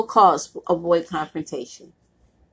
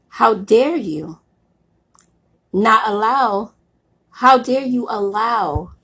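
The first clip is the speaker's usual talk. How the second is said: slow, emphatic blunt challenge; straightforward and blunt. Real, not acted. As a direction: confront them bluntly, word by word with long pauses. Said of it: "saying it to be straightforward and blunt".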